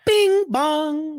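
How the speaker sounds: high-pitched chanted cheer; rallying call. Acted. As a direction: sing it out high as a rallying cry. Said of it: "that's the New York City rallying call".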